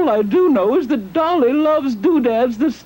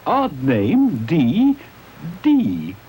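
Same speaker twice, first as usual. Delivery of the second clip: puzzled musing; 10 semitones lower, slower than usual. Acted. Puzzling over the odd name.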